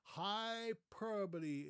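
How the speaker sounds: drawn-out four syllables in "Hyperbole"; correct hyperbole. Shown as a demonstration. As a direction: stretch out "Hyperbole", hy-PER-buh-lee. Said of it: "it is hyperbole".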